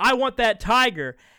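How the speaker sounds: loud, forceful screaming. Telling a story, acting out a woman screaming at a man: retelling a scream. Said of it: "she screams again".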